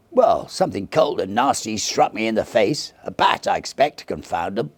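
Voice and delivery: a mild grumble about bats; lightly voiced companion. A narrator's reading. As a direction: brush it off gruffly. Goodyear replies, startled.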